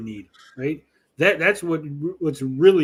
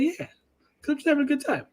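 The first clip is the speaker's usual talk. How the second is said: Southern white guy; 12 semitones higher, 3 dB quieter, faster than usual. Retold or imitated. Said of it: "Southern white guy voice".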